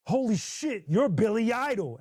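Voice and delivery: spazzing fan. Retold or imitated. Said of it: "spazzed out".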